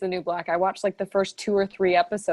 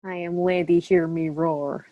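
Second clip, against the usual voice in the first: slow, low, Russian-sounding declaration; Russian accent; 3 semitones lower than usual. Pretend. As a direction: proclaim it slowly with a hint of Russian accent. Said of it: "that sounded Russian".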